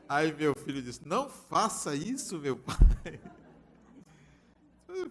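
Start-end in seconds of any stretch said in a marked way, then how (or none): 1.1-2.7 higher-pitched exclaimed objection; mock protest. Son stopping his father's bribe, mock protest.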